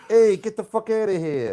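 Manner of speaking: mock Jersey brush-off; light New Jersey accent. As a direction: throw it out in a put-on Jersey accent. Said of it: "that was my Jersey accent".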